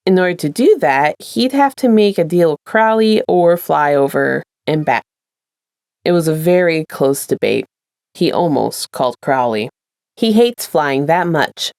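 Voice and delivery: steady storyteller reading aloud; story narration. A narrator's reading. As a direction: read it like an audiobook chapter. Reads a fanfic aloud.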